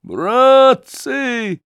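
high, loud, slow desperate yell; yelling for help. Acted. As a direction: scream for your comrades. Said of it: "заорал Гундосый".

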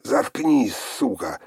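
loud furious yell, high on the first word; shouting. A narrator's reading. Sister yells at Olga to shut up, loud furious shout. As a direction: snap at her to shut up. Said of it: "закричала та".

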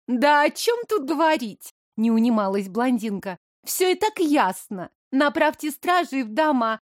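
tattle eagerly to the queen; spiteful young blonde. Acted. Blonde insists.

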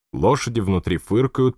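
ordinary delivery

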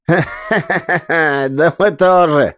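slow, laughing reply with a changed voice; men laughing at the joke. Acted. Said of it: "захохотали мужики".

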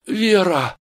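high, loud cry of her name; calling out. Acted. Steve calls after departing Vera, crying out. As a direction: call after her desperately. Стив зовёт уходящую Веру.

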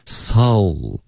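soul as the mistaken vowel; teacher shows the error; wrong soul. Shown as a demonstration. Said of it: "不要发soul".

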